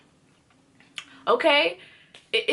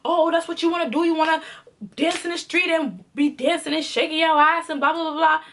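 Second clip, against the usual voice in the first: mocking boyfriend's rant; 3 semitones higher than usual. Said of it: "He was like".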